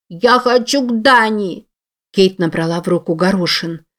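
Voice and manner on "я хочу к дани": put-on child's cry. A narrator's reading. Child screaming demand.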